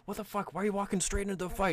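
high, fast incredulous questioning; baffled barbarian. Acted. Barbarian to teammate walking into the fight, high-pitched bafflement. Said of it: "the barbarian's like".

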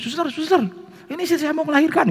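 high-pitched hurried call for the nurse; panicked call. Retold or imitated. Husband calls the nurse as wife labours, mock panic. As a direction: imitate a flustered plea for help. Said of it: "saya panggil susternya".

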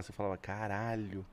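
usual speaking voice

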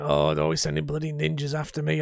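strained character voice, grumbling about ninjas; ex-husband Harold. Shown as a demonstration. Gamer demos his ex-husband character, straining character voice. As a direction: put on a throat-straining grumbler's voice. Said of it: "I can't do the voice for very long".

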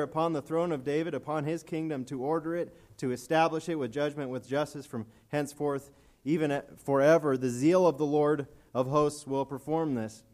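scripture proclaimed from the pulpit with swelling fervour; preaching scripture. Acted. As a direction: build the prophecy toward its peak.

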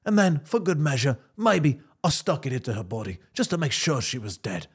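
lightly voiced calm tough guy, barely shifted; Jason Statham impression. Suspect talking his way past a cop, mild Statham voice. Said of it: "Jason Statham impression".

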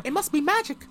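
playful spooky whisper; mock spooky. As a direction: tease it like a magic trick. Spooky joke about the package.

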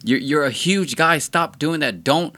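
a mock-panicked woman telling him to back off; high mocking woman voice. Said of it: "She's like".

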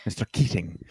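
KEATING said with a full ringing -ing ending; enunciated -ing. Retold or imitated. Co-host echoing how the film says the name, enunciated -ing. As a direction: say Keating with the final g sounded. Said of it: "they really pronounce it as".

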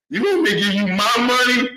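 high squeaky shouting rant. Acted. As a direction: yell it in a squeaky voice. Ranting in a squeaky voice.

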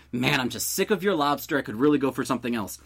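fast, offhand complaint; throwaway. Acted. Grumbling to a roommate about his cooking, throwaway. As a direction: say it casually, in passing. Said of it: "just kinda throwaway line of".

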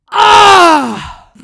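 loud, high pained shout; blurting a violent yell of pain. Retold or imitated. Son imitating husband's pained stair yell: loud agonized cry. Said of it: "he's like".

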